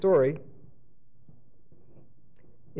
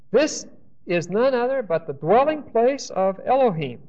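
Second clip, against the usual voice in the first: mildly awestruck, higher-pitched scripture quote; awed exclamation; 3 semitones higher than usual. Acted. Lecturer quoting overwhelmed Jacob at Bethel, mildly awestruck. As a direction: voice Jacob's wonder with emphatic, raised pitch. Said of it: "He is overwhelmed by what has happened".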